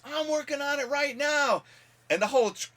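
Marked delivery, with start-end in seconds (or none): 0.1-1.6 high, loud reply. Retold or imitated. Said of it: "And he goes".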